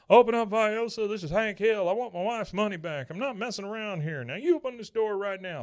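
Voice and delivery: loud, high-pitched demanding yell. Retold or imitated. Hank banging on the doctor's door, yelling. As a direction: holler through a closed door. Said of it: "while he's yelling and banging on the door".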